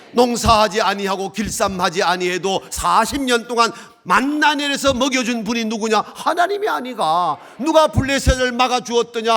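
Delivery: high, loud volley of rhetorical questions; full-force preaching. Real, not acted. Preacher demanding amens from congregation about God's deeds, impassioned.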